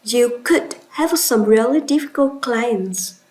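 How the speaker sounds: "could" stressed to show confidence. Shown as a demonstration. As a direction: put clear emphasis on "could". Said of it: "By stretching could".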